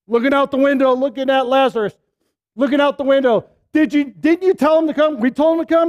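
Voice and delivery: mock-anxious sisters asking where Jesus is.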